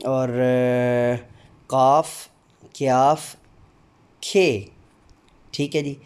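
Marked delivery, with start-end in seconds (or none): 1.7-4.7 each Urdu letter name sounded out slowly and distinctly. Shown as a demonstration. Teacher drilling the Urdu alphabet for demo candidates, slow and distinct. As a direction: recite the alphabet, one clear sound at a time. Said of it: "हर हरफ की आवाज़ अदा करते हुए".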